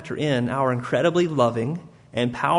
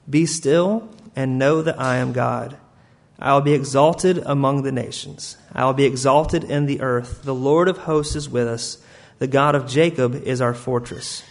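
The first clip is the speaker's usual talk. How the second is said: solemn scripture reading. Acted.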